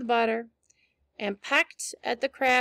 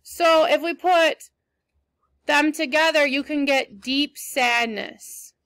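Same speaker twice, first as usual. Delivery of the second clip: slow teaching; 4 dB louder, slower than usual. Shown as a demonstration. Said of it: "teacher building the meaning".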